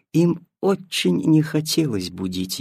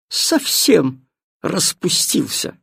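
snooty bored cat; 4 semitones higher than usual. Acted. Cat continues scornful remark.

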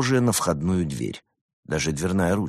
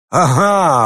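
delighted cry, higher and louder; happy cat's exclamation; gleeful; 10 semitones higher, 9 dB louder than usual. A narrator's reading. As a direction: pounce on it with joy. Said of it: "обрадовался кот".

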